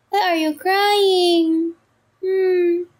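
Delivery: slow, high, drawn-out pet talk. Real, not acted. Asks crying cat Peanut again. (mabagal at matinis na baby talk sa pusa)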